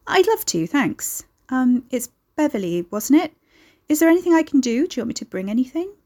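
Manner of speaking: bright-pitched, quickening politeness; eager acceptance. Acted. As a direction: accept eagerly, rushing to offer help. Accepting an invitation to tea.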